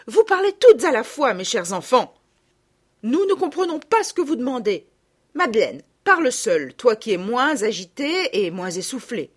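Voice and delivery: a hint of a calm, firm mother. A narrator's reading. Mother calming her excited girls, lightly voiced. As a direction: settle the excited girls gently.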